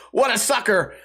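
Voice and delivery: normal talking voice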